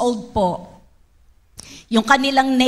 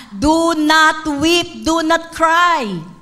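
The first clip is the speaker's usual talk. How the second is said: slow, firm words of Jesus with rising force; Jesus comforting; much slower than usual. Acted. Jesus telling the grieving widow, slow and commanding. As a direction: command the widow slowly not to weep.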